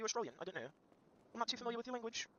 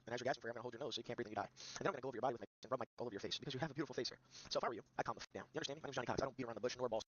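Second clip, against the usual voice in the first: lower, softer smug tough guy; lightly voiced Johnny Cox character, taunting; smug threat; 8 semitones lower, 4 dB quieter, faster than usual.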